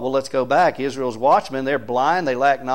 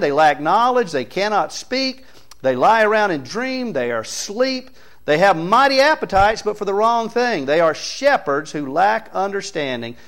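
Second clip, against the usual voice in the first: higher-pitched, punchy sermon delivery; emphatic preaching; 5 semitones higher, 4 dB louder than usual. Real, not acted. Preacher listing the watchmen's failings to the church, emphatic preaching. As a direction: hammer out each charge in turn. Preacher driving home the charge.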